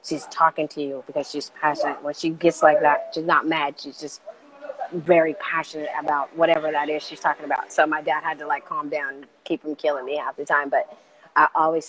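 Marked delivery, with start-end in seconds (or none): 0.0-7.7 mom calming dad. Retold or imitated. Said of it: "My mom's just like".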